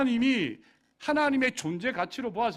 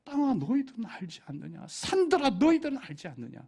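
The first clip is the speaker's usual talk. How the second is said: crying out; 5 semitones higher than usual. Acted. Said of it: "이렇게 외치는 거예요".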